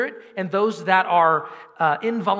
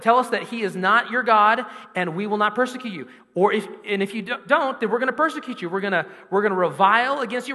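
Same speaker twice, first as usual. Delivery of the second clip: mock persecutor threat; 4 semitones higher than usual.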